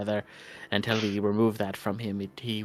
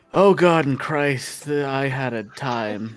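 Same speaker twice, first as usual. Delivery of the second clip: shark voice; 2 semitones higher, 6 dB louder, much slower than usual. Acted. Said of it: "I keep trying to do shark voice".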